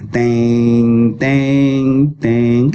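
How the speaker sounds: mimicked suspense chords, loud; dramatic sting. Shown as a demonstration. Comic storyteller imitating a movie music sting. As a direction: hum the film's dramatic music cue. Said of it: "Dia pun buka".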